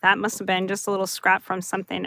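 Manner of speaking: ordinary delivery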